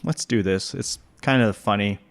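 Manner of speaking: talking while crunching carrots. Real, not acted. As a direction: speak through a crunchy bite. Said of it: "Excuse the crunching of the carrots".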